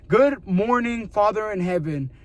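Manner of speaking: slow, mock-formal prayer opening. Imitating how some people pray to God, slow and mock-solemn. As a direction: draw it out like a stiff churchgoer. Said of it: "some people pray like that".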